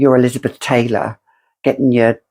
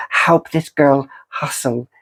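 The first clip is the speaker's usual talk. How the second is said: playful shout; 2 semitones higher than usual. Acted. Playful plea for tips.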